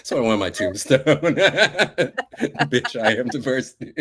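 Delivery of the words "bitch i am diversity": higher, louder, through real laughter; laughing. Real, not acted. Guest joking about a tombstone epitaph, laughing. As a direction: say it while cracking up. Cracking up over tombstone joke.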